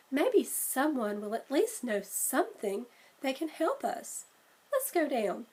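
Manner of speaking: a hint of a bright little girl, a bit quick; lightly voiced Annie. Sister suggesting they ask New Yorkers, lightly girlish. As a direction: nudge the pitch up for the sister.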